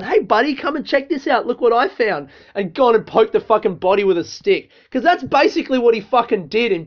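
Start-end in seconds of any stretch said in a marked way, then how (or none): 0.0-2.3 high, loud, chirpy mock kid-friendly voice; hammed-up buddy calling a child over; mocking the YouTuber. Mocking the YouTuber luring a kid to the body, chirpy mock voice. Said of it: "imagine if he'd grabbed one of those kids and gone".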